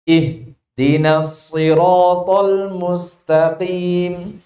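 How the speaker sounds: chopped recitation, pausing mid-phrase; broken recitation. Shown as a demonstration. Teacher showing a wrong Quran reading to the class. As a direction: recite it wrongly with a break after "Ihdinas". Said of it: "sehingga bacaannya apa".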